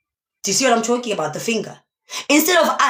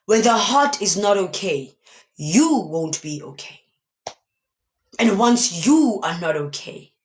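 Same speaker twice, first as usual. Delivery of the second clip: getting emotional; 2 semitones lower than usual. Real, not acted. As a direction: let the feeling catch you as you repeat it. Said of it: "Why am I getting emotional?".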